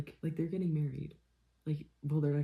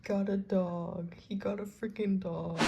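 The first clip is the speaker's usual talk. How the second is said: awed whisper; 5 semitones higher, slower than usual. Real, not acted.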